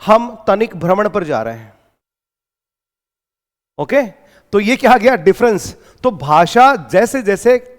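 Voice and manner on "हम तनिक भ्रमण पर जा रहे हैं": lightly voiced formal student, stately pace; formal shuddh Hindi. Shown as a demonstration. Teacher contrasts the student's pure Hindi, mildly formal. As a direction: mimic a prim student speaking pure Hindi, a touch grand. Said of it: "उसने क्या बोला".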